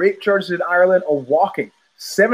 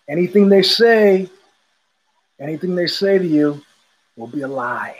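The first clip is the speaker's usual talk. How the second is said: conspiratorial stranger. Retold or imitated. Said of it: "looking around conspiratorially".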